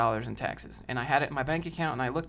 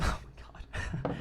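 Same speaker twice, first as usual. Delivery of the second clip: laughing; 9 dB quieter, faster than usual. Real, not acted. Cracks up at own bit.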